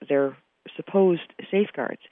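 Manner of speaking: "supposed" set apart and leaned on; stress on supposed. Real, not acted. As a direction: lean pointedly on the word "supposed". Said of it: "I continue to stress the word supposed".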